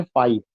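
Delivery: "फाइव" said easily, low, no stress; unstressed FAIV. Shown as a demonstration. Teacher showing an unstressed syllable, "फाइव" relaxed and unstressed. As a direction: let "फाइव" drop without any push. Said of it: "बहुत आराम से आप कह देते हैं".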